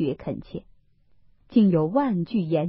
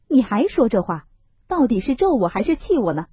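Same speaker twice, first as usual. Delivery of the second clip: anxious Baoyu; 4 semitones higher, 4 dB louder, faster than usual. Acted. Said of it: "一句话又把宝玉说急了".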